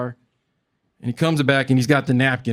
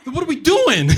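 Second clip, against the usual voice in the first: incredulous high squeak; 13 semitones higher, 4 dB louder than usual. Retold or imitated. Comic asking the cop why he's stopped, high and incredulous. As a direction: voice jumps way up, laughing in disbelief.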